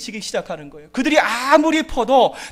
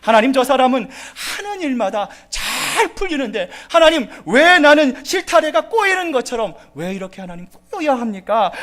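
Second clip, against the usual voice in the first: higher, louder bitter complaint; complaining to God; 4 semitones higher, 4 dB louder than usual. Retold or imitated. A believer complaining to God, bitter and louder. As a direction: whine at God in frustration. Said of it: "불평할 수 있다라는 거죠".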